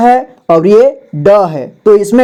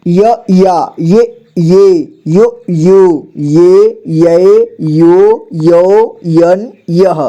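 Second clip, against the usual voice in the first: slow, sing-song syllable recitation; slow teacher drill chant; much slower than usual. Shown as a demonstration. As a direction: chant each syllable out for the class. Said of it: "र का देखिए".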